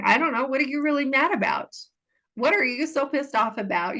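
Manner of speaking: probing questions. Retold or imitated. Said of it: "I start probing".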